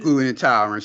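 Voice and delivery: skeptical repeat of her excuse; scoffing. Real, not acted. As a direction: say it like you don't buy it. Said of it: "She's lying".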